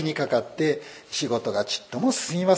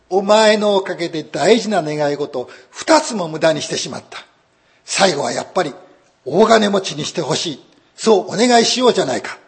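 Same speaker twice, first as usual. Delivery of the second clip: scolding husband; 3 semitones higher, 6 dB louder than usual. Acted. Husband scolds, then proposes.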